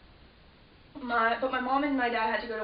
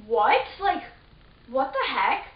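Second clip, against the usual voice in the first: 1 baffled outcry; 2 semitones higher, 6 dB louder, slower than usual. Retold or imitated. Siblings baffled at the door.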